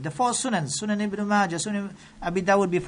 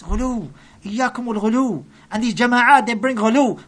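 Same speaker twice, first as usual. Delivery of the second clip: raised, forceful denunciation; loud preaching; 3 semitones higher, 5 dB louder than usual. Real, not acted. Preacher warning the congregation, loud and forceful. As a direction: hit ghulu hard and loud. Preacher denouncing extremist groups.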